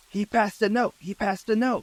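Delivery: high-pitched imitated boy's cry; retold yell. Eight-year-old boy who saw the note passed, imitated yell. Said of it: "he immediately yells out".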